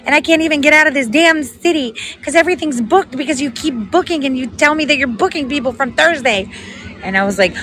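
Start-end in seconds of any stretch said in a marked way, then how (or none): 0.1-6.5 high-pitched imitation of an upset stranded woman; upset lady. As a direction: mimic her complaint, pitched up. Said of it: "the lady with the duck-billed mask was very upset".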